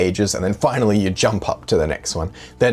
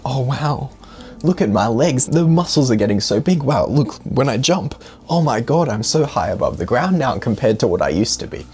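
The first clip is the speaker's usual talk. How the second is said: mock amazement; 4 semitones higher than usual. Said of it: "If you were to focus on".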